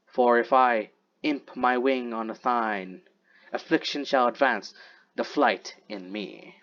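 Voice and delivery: slow, measured verse reading; poem recitation. Acted. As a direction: recite it slowly, drawing out the phrases. Reads the poem aloud.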